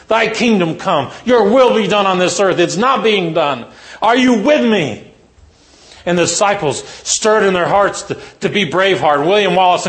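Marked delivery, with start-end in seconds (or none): 0.1-5.1 rallying cry. Retold or imitated. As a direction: stir them up for battle. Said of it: "That's what he's saying".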